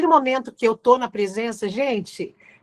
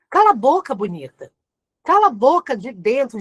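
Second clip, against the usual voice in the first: usual speaking voice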